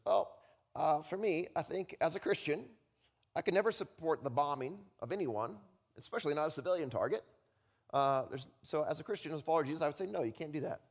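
put-on lightly done Texas accent; a hint of a small Texas voice; squeaky Texas accent. Hauerwas answers the students, mild Texas accent. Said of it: "this squeaky little Texas accent voice".

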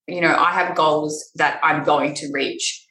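sniffly, with a runny nose. Real, not acted. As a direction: talk through a runny nose. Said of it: "And my nose is running".

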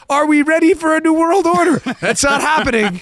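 high-pitched, breaking into laughter; laughing disbelief. Real, not acted. Host mocks fact checkers' denial, laughing in disbelief. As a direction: crack up while mocking the denial. Mocking the denials while cracking up.

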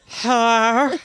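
lightly voiced creepy visitor; Barbara voice. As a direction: call out coyly at the window. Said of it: "the speaker does Barbara".

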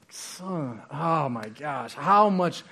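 playfully exasperated teacher pleading with a slow student; exasperated Jesus. Retold or imitated. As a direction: come on, seriously, don't you get it. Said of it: "Jesus is like".

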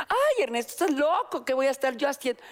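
high, startled "Ay, Ernesto"; shocked protest. Retold or imitated. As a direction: squeal out her disbelief. (agudo e incrédulo, sin más)

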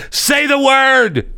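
high, drawn-out cry, each word stretched slowly; exasperated demand. Real, not acted. Begging the co-host to just say the word, high and slow. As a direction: plead it out long and high.

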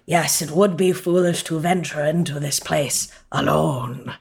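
measured and grave; slow character voice. Acted. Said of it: "it's like".

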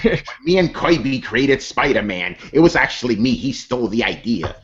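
a measured mock grievance; Stan Lee. Imagining an announcer griping about Kirby, light Stan Lee impression. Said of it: "he starts talking about how".

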